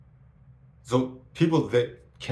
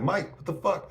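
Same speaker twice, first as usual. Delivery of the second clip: high, surprised outburst; high-pitched shock at an old friend; retold shocked greeting; 11 semitones higher, 3 dB louder than usual. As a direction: call out his name in disbelief. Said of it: "I was like".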